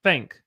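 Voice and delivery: "think" pronounced like "thenk"; "think" with a Southern eh vowel. Shown as a demonstration. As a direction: open the i in "think" to eh. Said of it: "We say think".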